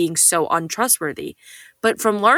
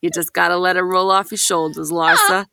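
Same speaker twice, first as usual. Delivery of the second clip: put-on Brooklyn accent. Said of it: "your dad in his Brooklyn accent saying".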